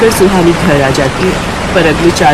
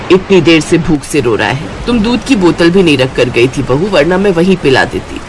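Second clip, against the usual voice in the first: put-on mildly chiding older woman; lightly voiced mother-in-law; 2 semitones lower than usual. Mother-in-law chides her daughter-in-law over the hungry baby, mildly reproachful.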